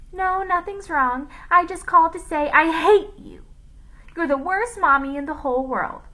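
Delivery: put-on high, loud, bratty child tirade; Rondi. A narrator's reading. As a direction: mimic a little girl being hateful to her mother. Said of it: "pretending to be Rondi and using her voice".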